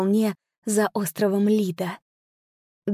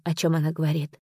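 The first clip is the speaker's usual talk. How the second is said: usual speaking voice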